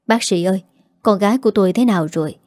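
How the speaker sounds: quick anxious question to the doctor; father urging the doctor about his daughter, anxious and fast; anxious, urgent. Acted. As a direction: rush the question out, worried. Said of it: "Kiên sốt sắng hỏi".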